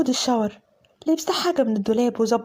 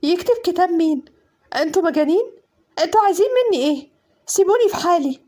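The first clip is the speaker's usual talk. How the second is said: panicked protest; 4 semitones higher than usual. Acted. Bride forced into marriage shouting at family, panicked. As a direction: scream at them to let go.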